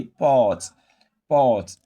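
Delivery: "port" with a long AW vowel. Shown as a demonstration. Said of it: "O is pronounced as a long O".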